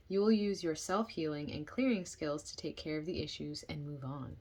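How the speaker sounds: measured book-reading voice, projected; reading aloud. Real, not acted. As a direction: read the passage out clearly to listeners.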